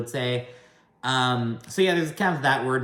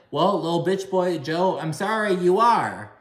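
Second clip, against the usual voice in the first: mimicked jab; 6 semitones higher than usual. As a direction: mimic a catty comeback, pitched up and pushed. Mimics Teresa's jab at Joe.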